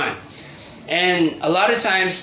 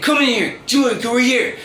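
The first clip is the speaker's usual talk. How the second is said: raised, much higher mock yell calling her over; retold call-out; 8 semitones higher, faster than usual. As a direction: imitate him barking her name to come in.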